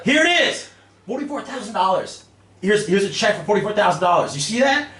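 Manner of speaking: high, loud triumphant reveal; reliving the moment at full excitement; super excited. Retold or imitated. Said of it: "I was just excited, super excited, mess up all the audio levels".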